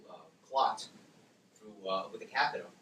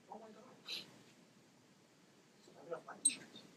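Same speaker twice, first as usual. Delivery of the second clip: worried inner voice; 8 semitones higher, 17 dB quieter, faster than usual. Retold or imitated. Retold frightened thoughts on hearing diagnosis.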